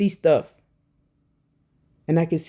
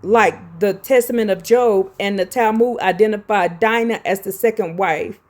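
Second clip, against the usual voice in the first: emphatic, halting read of a scholarly text; reading aloud; 3 dB louder than usual. Real, not acted. Host reading scripture commentary to viewers, emphatic read-aloud. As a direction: read it out firmly, punching the key names.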